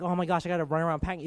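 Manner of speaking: hurried, mildly panicky mock fluster; mock freak-out. Contrasting panic with sitting down with God, mock freak-out. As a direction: rush it out as an imitation of freaking out. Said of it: "in my freaking out".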